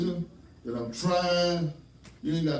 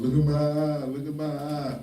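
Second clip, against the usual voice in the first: imitated crying child. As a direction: play a tearful child complaining. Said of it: "Jasmine went to crying last night".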